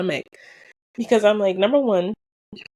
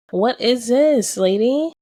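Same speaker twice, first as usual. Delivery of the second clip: loud, slow What is this lady; indignant outcry; 5 semitones higher, 6 dB louder, slower than usual. Retold or imitated. To the supplier over the wrong designs, a loud slow outcry. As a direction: call her out, drawn out and loud.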